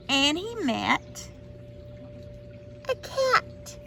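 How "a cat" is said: cat reveal. A narrator's reading.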